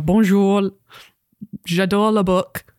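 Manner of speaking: badly faked French accent; French with very English sounds; unconvincing French. French book club guest greeting Anita, in unconvincing French. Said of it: "sound like someone who's never heard a language spoken".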